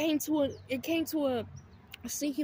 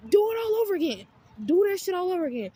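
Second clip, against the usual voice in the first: louder, higher, fed-up repeat; exasperated emphasis; 5 semitones higher, 6 dB louder, faster than usual. Real, not acted. Complaining about the roommate's endless crying cycle, loud and fed up. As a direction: hammer home how it keeps happening.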